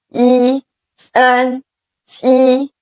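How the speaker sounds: 一, 三 and 七 each held level in the first tone; flat first tone. Shown as a demonstration. Teacher shows students the level first tone on 一 三 七. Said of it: "are all in the first tone, the flat tone".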